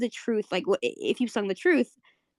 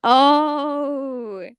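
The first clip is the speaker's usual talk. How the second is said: intrigued reaction; 2 semitones higher, 3 dB louder, much slower than usual. Acted. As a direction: stretch each word with teasing interest. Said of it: "you see them both blush".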